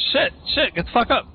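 high, frantic panicked shout; panicked yell. Real, not acted. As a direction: yell it in a panic as the fight turns. Panicked in firefight.

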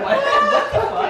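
very high, laughing squeal of disbelief; retold shock. Friend retelling reaction to a prank fall, mock shocked squeal.

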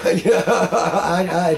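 laughing through the words. Real, not acted. Laughing as he tells the group he never drank greens. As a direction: chuckle while admitting it.

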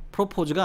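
프로포즈 with the stress late, on 포; second-syllable stress. Shown as a demonstration. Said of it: "뒤에 강세가 있죠".

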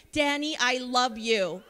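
slow, gushing mock declaration; all-caps gush. Counselor gushing at a student named Danny, mock all-caps. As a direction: lay it on thick like a shouted text. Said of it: "I would text you all caps".

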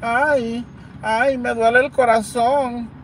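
lamento burlón, más agudo y lento, ay ay ay; llanto fingido. Retold or imitated. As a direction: imita exagerando a una mujer que llora. (se burla de la que llora en los audios, lamento fingido y agudo)

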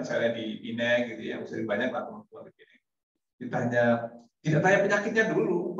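normal talking voice

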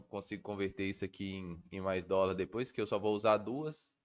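usual speaking voice

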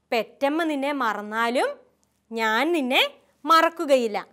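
slow, measured verse recitation; teaching recitation. Shown as a demonstration. Sister teaching a Bible verse to children, slow recitation. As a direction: recite slowly in phrases for children to learn. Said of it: "sister ഇപ്പോൾ പഠിപ്പിക്കാം".

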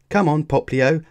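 high, loud urging; cheering call. A narrator's reading. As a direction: call out to spur the racer on. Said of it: "Lana called".

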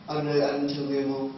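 soft, lips-only ghost voice; through clenched teeth. Retold or imitated. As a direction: imitate her, teeth clamped, speaking only with the lips. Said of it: "răng nó cắn lại mà nói bằng cái môi".

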